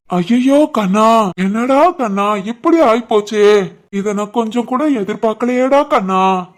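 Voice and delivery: drawn-out fake lament; mock wailing. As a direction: pretend to weep over a fallen friend. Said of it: "ஏன்டா இந்த அழுகுரல்". (போலி அழுகுரலில் புலம்பல்)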